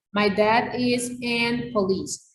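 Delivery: teacher reading the student's sentence aloud, slowly and evenly; reading out a student error slowly; slow read of the wrong sentence. Shown as a demonstration. Teacher reads a student's wrong sentence, slow and deliberate. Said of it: "El uso de este artículo es incorrecto".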